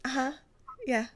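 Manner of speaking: a lightly voiced sweet-talk answer to her boo; flirty phone answer. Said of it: "And you'll be like this".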